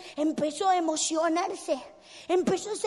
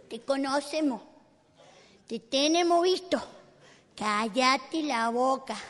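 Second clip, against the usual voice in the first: low warning; 4 semitones lower than usual. Acted. Crowd warns Bartimeo to be quiet.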